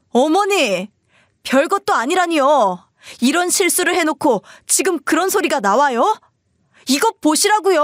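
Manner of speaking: acted exasperation, pushing back insistently; indignant son. Husband insisting his mother look at the box, indignant.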